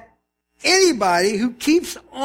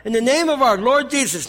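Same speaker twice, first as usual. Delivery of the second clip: slightly raised, emphatic reading; Paul coming down hard; 3 semitones higher, 3 dB louder than usual. Acted. Pastor voices Paul passing judgment, emphatic. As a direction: read it as a stern pronouncement. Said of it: "now he's really coming down".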